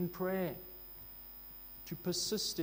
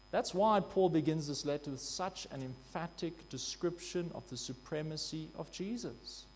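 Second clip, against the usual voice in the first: ordinary delivery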